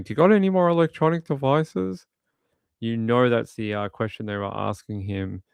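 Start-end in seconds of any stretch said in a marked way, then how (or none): 0.0-2.1 mock officer. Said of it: "that guy starts going".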